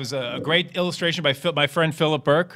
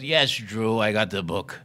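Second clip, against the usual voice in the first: Jerry Lewis on phone; 8 semitones lower, 3 dB quieter, slower than usual. Retold or imitated. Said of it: "And he goes".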